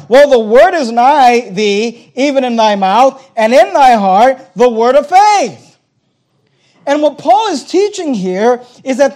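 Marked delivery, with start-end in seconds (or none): 0.3-5.8 slow, forceful recitation; measured, insistent preacher's reading; emphatic scripture quotation. Real, not acted. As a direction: recite the verse slowly, driving each phrase home. Preacher repeats the verse for emphasis.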